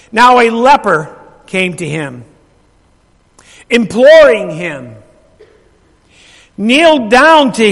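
slow, deliberate phrases with long pauses; Scripture reading aloud. Real, not acted. Preacher reading Luke to the congregation, slow solemn Scripture reading. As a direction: read it out weightily, phrase by phrase.

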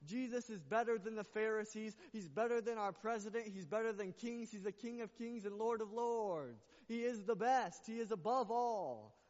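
loud, high-pitched preaching that climbs to a shout; preaching at full force. Acted. Pastor preaching to the church, rising to a full shout.

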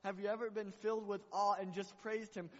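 loud, high preaching cry; rousing sermon voice; preaching at full force. Acted. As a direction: lift it up to the church.

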